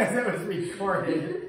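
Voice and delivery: words through laughter; can barely get it out; laughing. Real, not acted. Laughing while telling.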